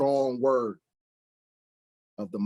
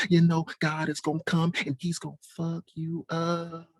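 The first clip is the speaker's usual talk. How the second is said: soft sweet delivery; 6 semitones higher than usual. Shown as a demonstration. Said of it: "if I spoke like that".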